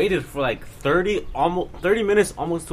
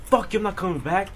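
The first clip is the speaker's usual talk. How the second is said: higher-pitched retold comeback; defiant retort; 5 semitones higher than usual. Student to staffer while leaving, retold defiance. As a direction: throw it back over your shoulder, lightly acted.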